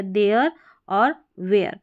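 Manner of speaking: देयर and वेयर said with an "air" ending; देयर, वेयर with an open eh glide; read as "air". Shown as a demonstration. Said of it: "इसको एयर करके पढ़ा जा रहा है".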